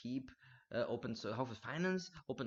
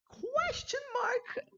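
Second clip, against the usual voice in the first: whisper; 5 dB louder, much slower than usual. Pretend. Mock-mysterious moment of zen.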